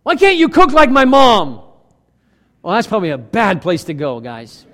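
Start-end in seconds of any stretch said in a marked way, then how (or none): 0.0-1.6 slow, louder complaining quote; mock nagging spouse. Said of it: "Don't say".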